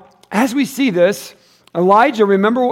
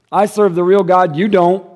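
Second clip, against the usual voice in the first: firm and a touch louder, stating it plainly; bold declaration; 2 semitones higher, 6 dB louder than usual. Retold or imitated. Prophet confronting the king, said boldly. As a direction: tell the king straight, no doubt at all. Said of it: "that's pretty bold stuff right there".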